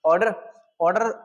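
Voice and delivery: ऑर्डर said clearly and carefully, like the English "order"; pronunciation demo. Shown as a demonstration. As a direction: spell out ऑर्डर the way a teacher models a word. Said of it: "इसका pronunciation ऑर्डर". (ऑर्डर का उच्चारण साफ़ साफ़ बोलकर दिखाना)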